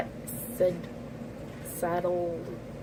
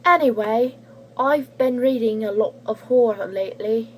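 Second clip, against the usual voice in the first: lightly put-on British accent; a slipping, uncertain British accent; strange British accent. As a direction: read it in a wobbly British accent. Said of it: "giving her a strange British accent".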